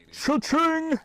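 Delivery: very high gleeful cha-ching. Retold or imitated. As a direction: sing out the cash register sound. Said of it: "he was like".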